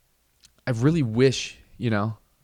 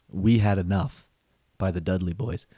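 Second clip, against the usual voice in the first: ring announcer; 3 semitones lower than usual. Pretend. Announcing the track the dad blasts, announcer style. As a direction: call the title like a wrestling intro.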